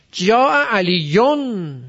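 "علیون" very slow, ending in a long -yon; nominative ending. Shown as a demonstration. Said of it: "مرفوع شده".

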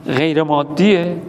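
"غیر مادیه؟" asked slowly, with a falling doubtful tune; slow mock doubt on "غیر مادیه؟"; doubting question. Shown as a demonstration. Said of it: "نه".

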